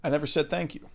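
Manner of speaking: soft, lightly voiced film impression; a hint of a movie character, softly; Gary Oldman. Player showing off an actor impression, lightly voiced. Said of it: "That's my Gary, Gary Oldman impression".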